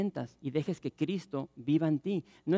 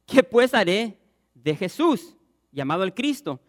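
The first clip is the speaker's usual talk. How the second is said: Pilate asking; 4 semitones higher, 9 dB louder than usual. Acted. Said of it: "Pilato les dijo".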